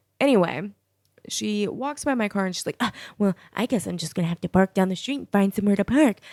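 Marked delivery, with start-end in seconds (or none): 3.2-6.2 mock-huffy, huffing and puffing, faster. Quoting a woman as she walks past the speaker's car: retelling someone huffing and puffing. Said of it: "she's just being all huff and puffy".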